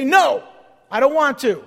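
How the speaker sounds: loud, defiant no; mock stubborn protest; acted refusal. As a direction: play someone stubbornly refusing. Acts out refusing God's leading.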